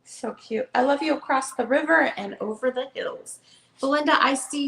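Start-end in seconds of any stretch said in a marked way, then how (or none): 0.7-3.4 gentle storybook read-aloud; reading to children. Acted. Seller reads the hare book to viewers, storytelling voice. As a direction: read it like bedtime for a little one.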